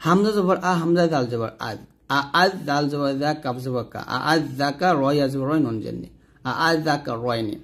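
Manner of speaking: letter by letter Quranic spelling; spelling out tashil. Shown as a demonstration. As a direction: teach it syllable by syllable. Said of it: "দেখুন এটা হলো তাসহিল".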